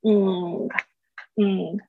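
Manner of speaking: "嗯" held as an isolated "ng"; velar nasal "ng". Shown as a demonstration. Teacher isolates the NG ending, held nasal "嗯". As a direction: hum "嗯" from the back of the tongue. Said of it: "N G的声音要特别注意一下".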